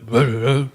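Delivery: wordless mock hardcore singer noise; imitated vocal noise in the style of a band. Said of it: "definitely a little Infesty, like".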